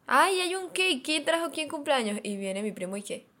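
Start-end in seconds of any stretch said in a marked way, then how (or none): 0.1-2.2 much higher, louder startled question; surprised. Retold or imitated. Spotting a birthday cake on arriving home, surprised. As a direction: act the sudden puzzlement at the cake.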